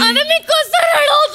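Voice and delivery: slow half-crying, half-laughing shout; hammed-up sobbing laugh; laughing sob. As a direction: wail in mock despair. Wife frustrated, half crying.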